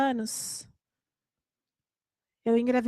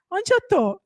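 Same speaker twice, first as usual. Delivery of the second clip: put-on confused little boy; 7 semitones higher, 3 dB louder than usual. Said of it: "ele acordava e falava".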